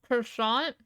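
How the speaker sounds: "Croissant" said the French way, kwah-sahn; aunt's French croissant. Retold or imitated. Streamer imitating aunt at the donut shop, French pronunciation. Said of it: "She says".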